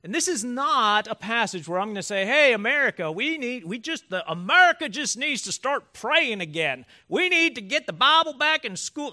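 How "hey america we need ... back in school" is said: loud, higher-pitched mock Southern accent; hammed-up Southern preacher urging the nation, loudly. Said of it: "that guy has a Southern accent".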